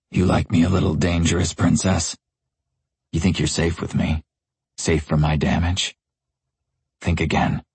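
rasping. Acted. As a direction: rasp it out, dangerous and teasing. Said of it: "I lick my lips before rasping".

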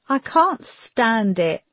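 high, slow distressed voice; simple, pained admission. A narrator's reading. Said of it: "she said simply".

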